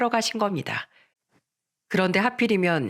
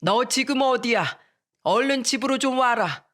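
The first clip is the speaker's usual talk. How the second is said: angry father; 5 semitones higher than usual. Retold or imitated. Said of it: "화가 난 목소리로".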